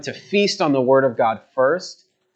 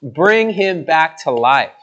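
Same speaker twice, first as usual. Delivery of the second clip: crying out; 3 semitones higher, 3 dB louder, slower than usual. Acted. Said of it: "he cries out to God three times".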